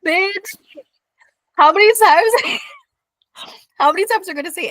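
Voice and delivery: high, loud exasperated squeal; exasperated outburst. Real, not acted. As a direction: shriek it at your co-host in disbelief.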